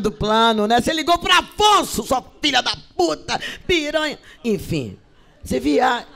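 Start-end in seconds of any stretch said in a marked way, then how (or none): 0.8-4.2 high, loud jealous phone rant; acted jealous woman screaming down the phone; jealous rage. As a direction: spit the insults at a rival. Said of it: "parece uma mulher ciumenta".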